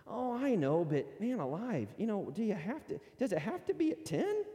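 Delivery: lightly voiced busy churchgoer wheedling for a later start; whiny excuse-maker. Preacher imitating a member who wants golf instead, a mild whine.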